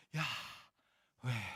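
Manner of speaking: Yahweh said as an airy breath, the name on an exhale. Retold or imitated. Teacher mocking the YouTuber's breath trick with a breathed Yahweh. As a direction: breathe the word Yahweh out like a sigh. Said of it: "Kalau kita bernafas saja Yahweh bunyinya".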